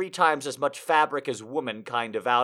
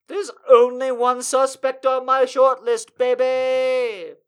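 hard-boiled detective; 7 semitones higher, 7 dB louder, slower than usual. Pretend. Detective pose, put-on voice.

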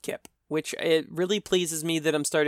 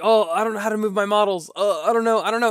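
mimicking a confused newbie; 5 semitones higher, 3 dB louder than usual. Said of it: "he was like".

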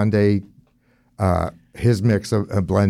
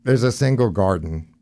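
muffled behind a mask; through a face mask. Real, not acted. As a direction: speak through a cloth mask. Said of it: "Sorry, it's the mask".

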